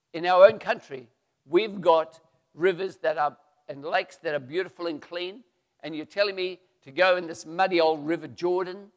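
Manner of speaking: mildly acted offended complaint; upset protest. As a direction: scoff at the muddy river. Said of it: "Naaman was very upset".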